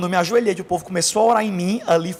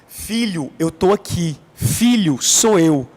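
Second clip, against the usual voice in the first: louder, urgent call of filho and grita; the voice of God urging him on; divine voice calling; 4 dB louder, much slower than usual. Retold or imitated. God's voice urging the young convert to shout, louder. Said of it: "a voz falou".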